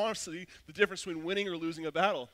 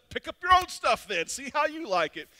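high, loud spiteful snap; retold fight, loud and petty; angry retort; 7 semitones higher, 6 dB louder than usual. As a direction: fling the words as you throw things. Throwing stuff during the fight.

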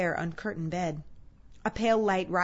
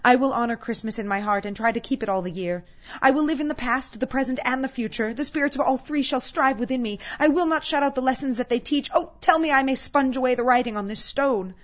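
loud, raised, fervent promise; impassioned vow; 5 semitones higher, 7 dB louder than usual. Acted. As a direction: swear it urgently, building to a desperate plea. Scrooge vows to change, begging.

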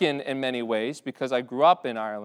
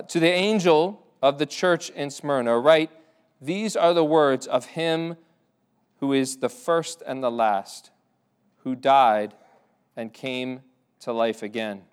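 slow, solemn reading from the Bible; measured pulpit reading voice; scripture reading. Acted. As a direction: read the verses out with weight. Reads scripture aloud.

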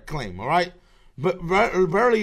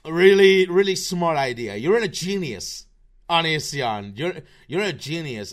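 sarcastic; 5 dB louder than usual. Real, not acted. Mocking Onision for suing Hansen.

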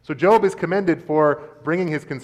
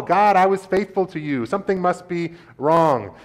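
a touch higher, earnest protest; protesting Job; 5 semitones higher, 4 dB louder than usual. Acted. Job protesting his innocence to God, earnest. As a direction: insist on your faithfulness.

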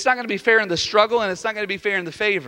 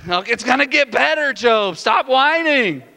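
raised, fed-up telling-off; acted exasperation, pitched up; mock scolding; 4 semitones higher, 3 dB louder than usual. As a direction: scold him loudly, stretching the last command.

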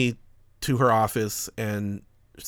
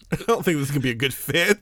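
quick, laughing repeat of the line; laughing retelling; 3 semitones higher, faster than usual. Retold or imitated. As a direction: chuckle while repeating it. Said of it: "Were you laughing when you said it?".

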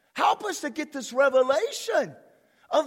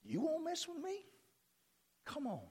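taunting the devil; 4 semitones higher, 13 dB quieter, faster than usual. Pretend. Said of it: "It's like I'm saying".

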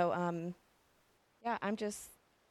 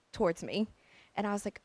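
ordinary talk

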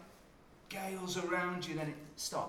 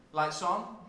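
mock shouting; 3 semitones higher, 7 dB louder than usual.

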